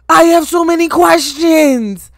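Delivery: loud, overwhelmed wail of confusion; exasperated outburst. Real, not acted. Viewer left confused by the anime's ending, exasperated. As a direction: cry it out loud, truly at a loss.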